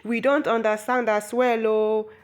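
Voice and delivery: mock communal protest, voiced up; villagers' chorus. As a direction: imitate a crowd answering together. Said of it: "the villagers also chorused".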